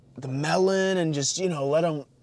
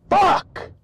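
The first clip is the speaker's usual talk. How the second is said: very high, loud single curse; furious scream; 9 dB louder than usual. Real, not acted. Driver after the crash, furious high scream. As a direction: explode in real rage. Road rage.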